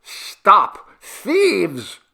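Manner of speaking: high, very loud shout; calling from below. A narrator's reading. Jivan from below to the fleeing men, high loud shout. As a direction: yell after fleeing thieves. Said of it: "Jivan's voice was heard from below".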